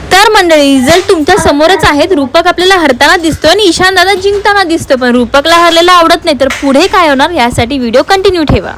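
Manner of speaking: upbeat host voice addressing viewers; family vlog announcer tone; vlog host narration. Acted. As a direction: talk to the audience like a vlogger.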